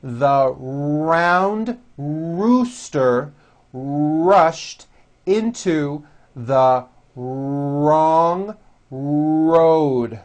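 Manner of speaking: very slow, every R pulled back and strong; slow model sentence for repetition; slow strong R demo. Shown as a demonstration. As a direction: drill the R sounds at half speed. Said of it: "repeat this sentence".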